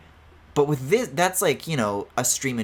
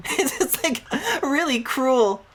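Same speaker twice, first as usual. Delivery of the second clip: laughing; 14 semitones higher, much slower than usual. Real, not acted. Laughs mid-remark.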